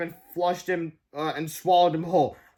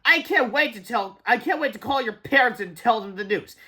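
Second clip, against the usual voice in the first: gloating teacher; 6 semitones higher than usual. Acted.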